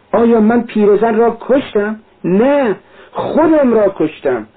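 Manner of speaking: anguished Raskolnikov. Acted. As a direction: tear the words out in despair.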